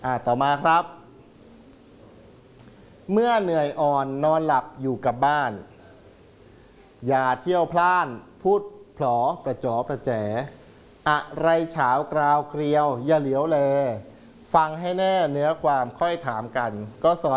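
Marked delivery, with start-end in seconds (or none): 3.1-13.6 measured poem reading, phrase by phrase; verse reading. Acted. Teacher reads an old Thai verse to pupils, measured recitation. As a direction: read the verse evenly, with pauses between lines.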